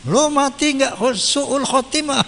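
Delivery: a joking curse he can't say straight; mock curse through laughter. Preacher mocks a curse he says the prophet never uttered, laughing.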